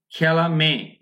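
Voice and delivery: "খেলামে" sounded out as khe-la-me, last vowel held; pronunciation demo. Shown as a demonstration. Teacher asks students what she pronounces, sounding-out demo. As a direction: give "খেলামে" alone as the word's first part. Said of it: "আমি কি কি উচ্চারণ করছি".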